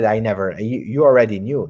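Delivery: normal talking voice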